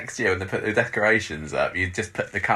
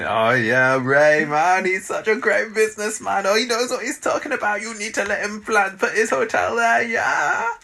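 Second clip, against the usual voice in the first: Dev impression; 12 semitones higher than usual. Friend mocking Dev praising Ray, high silly voice. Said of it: "That's my Dev impression".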